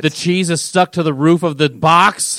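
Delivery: hammed-up whiny complaint, slowed; mock outrage. Teammate complaining about the dropped pizza, mock tearful wail. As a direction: overplay Stafford crying over ruined pizza. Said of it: "And Matt Stafford's like".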